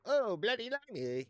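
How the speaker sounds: high, slow jeering "bloody limey"; hammed-up American insult; mock American sneer. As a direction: sneer it like a cartoon Yank. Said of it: "some American being like".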